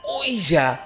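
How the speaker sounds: the gasp of just remembering the graveyard; sudden realization. Retold or imitated. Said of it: "sama-sama kagetnya karena baru ingat".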